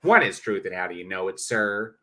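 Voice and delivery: rough attempt at a nasally Kentucky impression; Mister Batman, nasally Kentucky. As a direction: lightly put on a nasal Kentucky twang. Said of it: "Batman's is dictated by his emotion".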